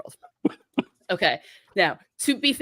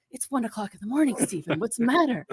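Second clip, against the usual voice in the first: woken aunt; 4 semitones higher than usual. Retold or imitated. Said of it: "She's like".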